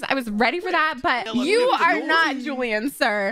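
rude scolding. Pretend. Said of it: "Give him a rude introduction".

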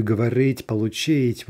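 говорить and получить stressed on the last syllable; final-syllable stress. Shown as a demonstration. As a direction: land the stress on "рить" and "чить" in говорить, получить. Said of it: "stress on that final syllable".

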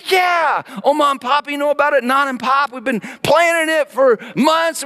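high, loud, thrilled dad; dad revealing the Disney trip to the kids; excited. Retold or imitated. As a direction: burst out with the big surprise.

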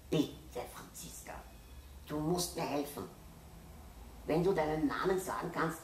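put-on high, pleading little boy. A narrator's reading. Boy begging his little sister to say her name, pleading.

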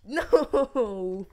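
loud dismayed shout. Real, not acted. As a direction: yell it in dismay. Shout at death in game.

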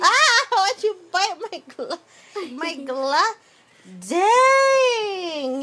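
high, loud surprised yelp; startled laughing. Real, not acted. Baby bites her glove.

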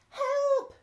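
cry for help. Acted. Stew in the water calling for help, high yelp. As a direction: shout it like someone falling in.

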